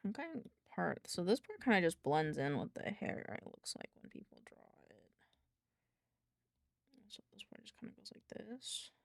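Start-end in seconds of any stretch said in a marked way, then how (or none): 3.3-8.9 whispering. Real, not acted. Whispering while drawing.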